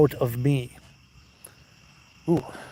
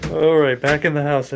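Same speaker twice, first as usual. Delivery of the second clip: loud and hyped; rally everyone, wound up; excited; 3 semitones higher, 8 dB louder than usual. Real, not acted. Excited after lightning.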